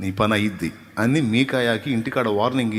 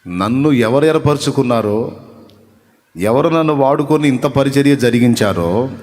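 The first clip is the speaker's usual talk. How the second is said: louder, rhythmic preaching build; a measured preacher's build; 5 dB louder than usual. Acted. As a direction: press each question home to the congregation. Preacher builds a rhetorical list.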